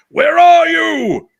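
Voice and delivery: booming, high, drawn-out cartoon yell; Karen. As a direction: holler it like a cartoon Saint Bernard. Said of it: "I don't know why I use that accent".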